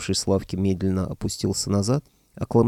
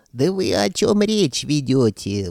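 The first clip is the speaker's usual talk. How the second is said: higher, slow, drawn-out bellow; outraged roar; 6 semitones higher, 4 dB louder, slower than usual. A narrator's reading. Sorcerer outraged at the talk of food, roaring. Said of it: "взревел лиховид под люстрой".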